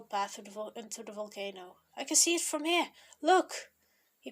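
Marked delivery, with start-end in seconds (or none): 1.9-3.7 high, loud excited call; cheerful. A narrator's reading. Young spots the statue ahead, cheerful calling. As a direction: point it out eagerly, louder. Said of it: "Young said cheerfully".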